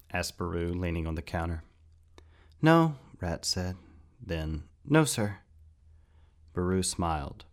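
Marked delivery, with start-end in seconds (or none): 2.6-3.0 sharp, high, loud no; quick high no. Acted. Boy answers quickly. 4.8-5.4 eager no sir. Acted. Boy corrects himself politely.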